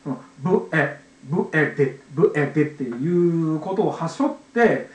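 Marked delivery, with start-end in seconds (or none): 0.4-2.6 ブエデ in separate sounds, bu, eh, de; segmented sounds. Shown as a demonstration. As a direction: say ブエデ piece by piece for a beginner. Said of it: "教えやすくするために".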